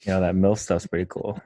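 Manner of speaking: lightly voiced low cartoon character; Joe from Family Guy. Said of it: "where Joe's like".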